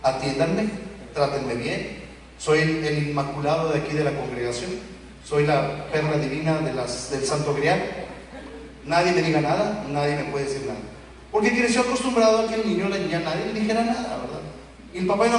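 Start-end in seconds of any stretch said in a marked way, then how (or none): 0.0-10.8 lightly mocking a spoiled brat's demands, a bit lower; a hint of the entitled member making demands; puffed-up mock demands; demanding spoiled churchgoer. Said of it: "exigiendo a todo mundo".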